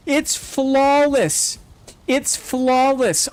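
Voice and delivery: awed. Real, not acted. Slow awed praise.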